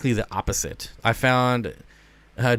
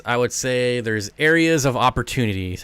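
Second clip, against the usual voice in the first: corporate voice. Shown as a demonstration. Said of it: "in my corporate voice".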